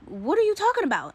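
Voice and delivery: high, startled question; surprised mom. Retold or imitated. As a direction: sound genuinely caught off guard.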